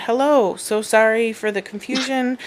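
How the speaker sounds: bright polite phone-agent voice; sweetly professional, reading the reply; customer service voice. Retold or imitated. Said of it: "there's my customer service voice".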